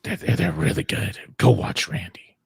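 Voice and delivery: lightly rasped vigilante advice; Batman. Acted. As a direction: keep up a rough masked-hero voice. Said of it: "you like my Batman voice?".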